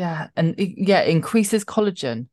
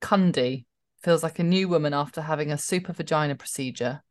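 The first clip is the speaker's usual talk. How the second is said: measured tabloid read-aloud, pausing between phrases; paced read-out of a gossip story; reading out headline. Acted. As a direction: read the article out deliberately.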